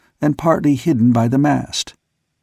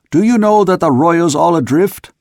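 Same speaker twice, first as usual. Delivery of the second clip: shout; 5 semitones higher, 4 dB louder than usual. A narrator's reading. Skipper calling up rigging.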